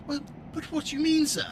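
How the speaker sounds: high, affected posh English voice; mock posh accent. Teasing the viewer, answering in a mock posh accent. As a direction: put on a plummy upper-class voice. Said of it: "I ain't calling you no posh bitch".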